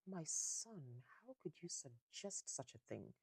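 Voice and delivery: lightly acted haughty mother; a hint of snobbish disapproval; mildly snooty upper-class mother; upper-class snob. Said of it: "switches into upper class mode".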